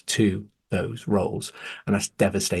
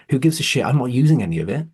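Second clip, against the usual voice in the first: exasperated; 3 semitones higher, 4 dB louder, faster than usual. Real, not acted. Frustrated outburst about skills.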